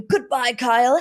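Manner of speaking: a sweet little dig; passive aggressive. Retold or imitated. Host riffing on Dorit's greeting, passive aggressive. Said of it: "it's like the new".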